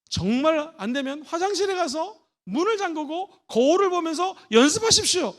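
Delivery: ordinary talk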